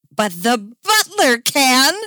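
loud, slow, dramatic reveal; hammed-up accusation, high and drawn out. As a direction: point the finger with your voice. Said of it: "Cass pointed dramatically".

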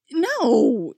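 loud, high-pitched denial; alarmed high yelp of protest; verging on shrill. A narrator's reading. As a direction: blurt it out, almost shrill. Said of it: "verging on shrill".

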